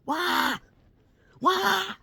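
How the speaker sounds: high-pitched, dismayed "why"; mock distressed wail. Talking back to cruise ship videos, high mock distress. Retelling her frightened reaction to videos.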